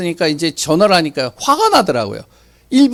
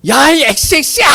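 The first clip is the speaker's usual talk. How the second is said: imitating a stranger yelling an insult, higher and louder; retold angry shout; 9 semitones higher, 4 dB louder than usual. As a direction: bark the insult out like the angry neighbour. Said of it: "막 소리를 지르는 거예요".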